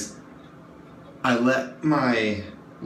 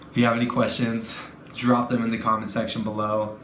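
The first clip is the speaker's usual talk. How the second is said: quick, hurried freezing repeat; freezing cold. Real, not acted. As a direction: rush it out, freezing in the water. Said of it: "I'm freezing my balls off".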